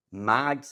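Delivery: Mad with short open A. Shown as a demonstration. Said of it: "you say them differently".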